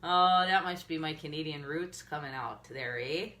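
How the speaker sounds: playful Minnesota-Canadian accent; put-on Minnesota accent. Shown as a demonstration. Joking about her Canadian roots, Minnesota accent. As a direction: lean into a northern Minnesota accent. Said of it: "That's a terrible accent".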